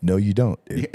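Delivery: loud flat no; firm refusal. Retold or imitated. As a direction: shut him down firmly. Refusing friend climbing lead.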